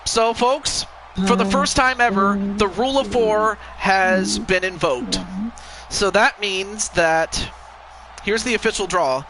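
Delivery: slow, formal ring announcer; wrestling commentator. Acted. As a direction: draw out the big announcement. Announces the official result.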